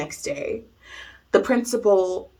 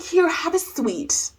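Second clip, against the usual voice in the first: high, slow, sugary offer; imitated placating teacher; 8 semitones higher, slower than usual. Teacher offering candy to crying student, high mock sweetness. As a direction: coax in a high mock-kindly voice.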